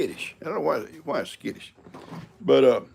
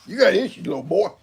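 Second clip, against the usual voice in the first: teasing the cat; 7 semitones higher, 5 dB louder than usual. Real, not acted. Talking to the cat.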